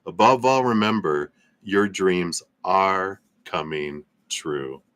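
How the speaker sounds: measured, deliberate message reading; inspirational reading. Acted. Streamer reading an uplifting message to viewers, measured inspirational reading.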